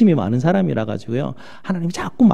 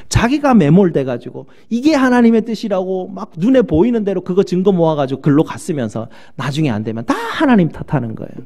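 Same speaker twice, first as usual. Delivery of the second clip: usual speaking voice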